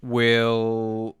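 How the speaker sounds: slow dramatic teaser; trailer announcer voice. Pretend. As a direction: tease the next episode like a TV narrator. Podcast outro teaser.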